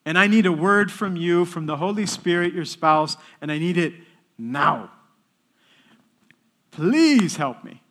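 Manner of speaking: retold insistent prayer, punching the demands; urgent plea. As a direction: beg Mary urgently, drawing out please. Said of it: "I asked the Blessed Virgin Mary".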